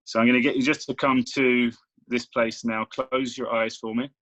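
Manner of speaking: steady, measured meditation guide; guided meditation. Real, not acted. Coach settling a client into meditation, guided meditation voice. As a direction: ease a listener into the exercise.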